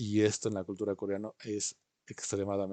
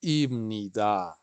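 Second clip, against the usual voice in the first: slow model word; 4 dB louder, much slower than usual. Shown as a demonstration. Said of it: "teacher models for repeat".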